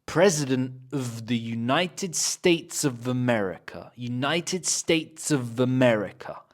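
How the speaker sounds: "of" reduced to "uhv" and linked into "America"; weak of. Shown as a demonstration. Teacher modelling the sentence, weak linked "of". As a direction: glide through each "of" as a schwa plus v. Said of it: "we can say as of".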